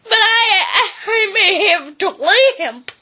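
timid dog squeaking about his limp; squeaking Drover. Acted. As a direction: squeak it, half laughing. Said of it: "Drover squeaked".

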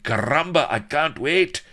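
very high, loud soldier's cheer; high, loud rowdy cheer; enthusiastic cry. Acted. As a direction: cheer it out eagerly. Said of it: "enthusiastic cries".

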